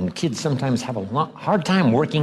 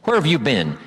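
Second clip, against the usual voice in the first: a touch of cutting sarcasm; mildly pointed rebuke; loaded, sarcastic; 2 semitones higher than usual. Shown as a demonstration. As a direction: let the question carry blame. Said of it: "that's loaded with "you don't care".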